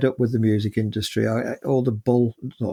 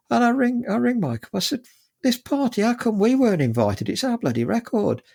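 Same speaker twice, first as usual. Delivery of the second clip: indignant outrage; 11 semitones higher than usual. Retold or imitated. Ringing manager angry about party.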